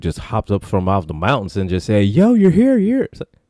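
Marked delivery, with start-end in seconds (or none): 2.0-3.1 excited stranger. Retold or imitated. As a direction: greet them like a long-lost friend. Stranger greets crew again.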